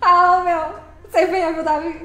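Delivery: loud playful telling-off; mock scolding. Streamer loudly teases viewer Davi for lying.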